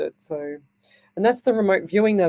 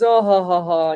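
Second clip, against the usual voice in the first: a louder, mock giggling "oh, ha, ha"; hammed-up retold giggle; imitating a giggle; 4 dB louder than usual. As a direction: put on the boss's smug little giggle. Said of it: "He just used to giggle a lot".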